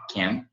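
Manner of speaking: "came" with its sound slightly pushed; forced sound. Shown as a demonstration. Teacher shows Portuguese speakers how to force the sound, pushed pronunciation. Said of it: "dar uma forçada aí no".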